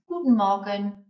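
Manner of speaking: teacher modelling German; German greeting. Shown as a demonstration. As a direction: clear German pronunciation of "Guten Morgen". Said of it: "first thing you might hear or have to say is".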